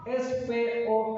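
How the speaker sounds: each letter set apart, slow and low; spelled out slowly. Shown as a demonstration. Preacher spelling S P O K slowly for the congregation.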